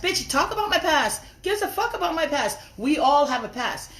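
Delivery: high, loud scornful taunt; heated online rant at a rival; furious. Real, not acted. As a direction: throw her words back at her.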